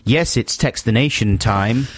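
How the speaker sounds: slow, drawn-out radio intro; imitated catchphrase. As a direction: mimic the co-host's stock announcement. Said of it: "Well, you always say".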